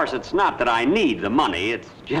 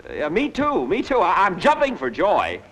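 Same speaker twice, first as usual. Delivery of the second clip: screwball comedy banter; 4 semitones higher than usual. Acted. Unhappy about his wedding.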